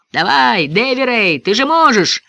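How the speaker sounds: high, encouraging call; calling from above. A narrator's reading. Ben encouraging Davy Ray from the sky, high call. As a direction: cheer a friend on from far up. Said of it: "отозвался из поднебесья Бен".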